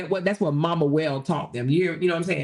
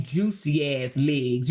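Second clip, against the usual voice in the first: drawn out; 5 semitones lower, much slower than usual. Acted. Savoring her juicy legs.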